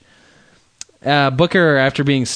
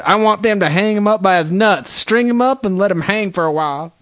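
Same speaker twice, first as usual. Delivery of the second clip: imitating a vengeful mother; 7 semitones higher than usual. Host imitates the victim's mother demanding a hanging, mock outraged. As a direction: voice her as a furious mother wanting him hanged. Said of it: "So this is a good impersonation there".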